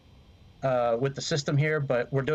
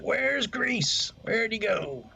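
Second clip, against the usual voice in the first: mock quote; 9 semitones higher, much slower than usual. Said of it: "You're like".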